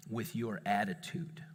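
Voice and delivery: low, slow, soft and deliberate; grave declaration. Retold or imitated. Dad telling child whom he fights, grave. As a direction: spell it out quietly, word by word.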